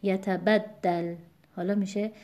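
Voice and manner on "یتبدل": یتبدل with "bad" stressed; yata-BAD-dal for یتبدل. Shown as a demonstration. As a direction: lean on the ب syllable of یتبدل. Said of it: "همونطور که خوندیم".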